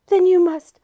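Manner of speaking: high loud villainous cry; a gloating demon. A narrator's reading. Trivium villain speaks.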